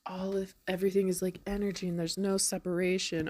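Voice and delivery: quick, airy mock-mystic whisper; mock guru whisper. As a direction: whisper it like a dreamy guru, teasing. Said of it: "spiritual gurus are like".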